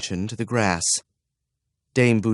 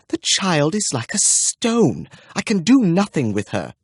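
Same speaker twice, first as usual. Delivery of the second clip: fretful governess; 7 semitones higher than usual. Acted. Anxious dame complaining to her superior about the child. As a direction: fret and plead. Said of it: "wrung her hands, and licked her pursing lips".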